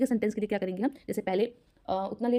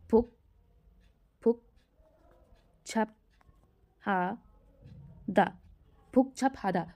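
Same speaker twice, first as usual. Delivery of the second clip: slow syllable-by-syllable dictation; slower than usual. Shown as a demonstration. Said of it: "देखिए यहाँ पे मैं लिख देती हूँ".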